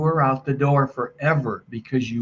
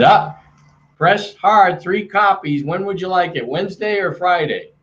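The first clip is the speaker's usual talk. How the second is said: hint of a pushy salesman, pitched higher; mock old-school salesman; 6 semitones higher than usual. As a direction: lightly imitate a canned, higher-pitched closing pitch. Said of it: "that's how selling worked".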